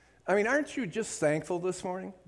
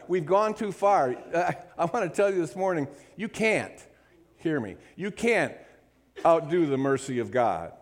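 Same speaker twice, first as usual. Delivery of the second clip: fervent preaching; 2 semitones higher than usual. Acted. Pastor assuring the congregation about mercy, fervent preaching. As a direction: preach it with rising conviction.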